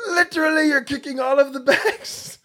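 high-pitched, badly faked British accent; hammed-up British accent, far above normal pitch. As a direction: squeal it in a terrible mock British voice. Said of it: "I don't do a good British accent".

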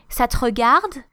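"Ça te regarde" with the tune falling, not really asking; offended retort. Shown as a demonstration. Teacher showing is it any of your business, offending. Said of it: "like, offending".

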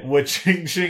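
slow imitated cash jingle; dollar sound. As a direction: draw out the ring of money. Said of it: "that's the sound of a dollar".

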